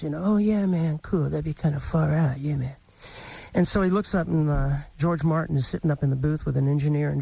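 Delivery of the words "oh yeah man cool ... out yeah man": cool hippie. Retold or imitated. Host mimicking his starstruck reply, a hint of cool hippie. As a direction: play it mildly spaced and cool. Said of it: "my cool kind of hippie, uh, response".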